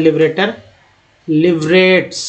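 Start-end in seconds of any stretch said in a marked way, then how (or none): 0.0-0.5 लिबरेटर with final TR sounded as टर; ending said "tar". Shown as a demonstration. Teacher showing learners how TR is read, लिबरेटर ending in टर. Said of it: "टीआर को टर बोलते हैं".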